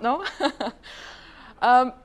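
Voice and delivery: usual speaking voice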